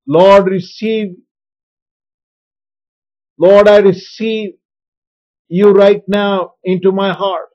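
slow, firm prayer, leaning on "Lord" and "receive"; strong, slow prayer. Shown as a demonstration. Pastor modelling a heartfelt prayer, slow and firm. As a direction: pray it out slowly with conviction. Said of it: "Speaking in a strong way will help".

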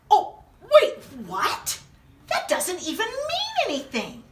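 giggling mock confusion; laughing protest. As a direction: laugh through the complaint. Reacting to silly book.

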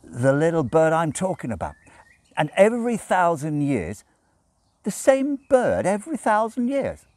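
tipsy Crowley pushing his story. A narrator's reading. Crowley voiced in audiobook.

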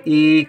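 ई held as a long "ee"; long ee sound. Shown as a demonstration. Teacher showing learners the vowel lasts, long ई. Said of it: "देर तक है".

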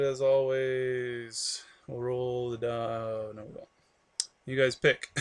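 drowsy, slowed and drugged up; slow, foggy medicated speech; sedated. Real, not acted. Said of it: "I'm all drugged up".

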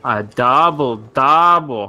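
put-on very slow, stretched Canadian accent. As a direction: drag it out like a Canadian. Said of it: "do a Canadian accent".

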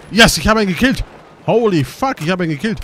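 loud, high cheer over a kill; excited cheer. Real, not acted. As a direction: yell it out after the first kill. (Jubel über den ersten Abschuss, laut und hoch)

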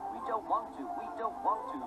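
grumbling. A narrator's reading. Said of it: "they grumbled".

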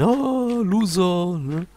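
high jeering Loser taunt; mocking gamer taunt. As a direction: jeer like a sore gamer. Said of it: "dann schreien".

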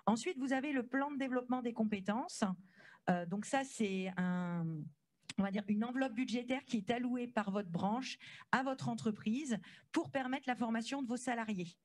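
muffled, talking through a face mask. Real, not acted. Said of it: "ça n'est pas évident avec le, le masque".

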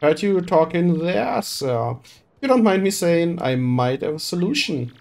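a rough dockhand calling out to the boss; gruff crewman. Acted. Crewman calling to Flavio with a solution, rough. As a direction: call out, eager to help.

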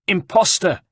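high, loud accusation; accusing shout. Acted. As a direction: fling it at Ezio. Herald confronts Ezio.

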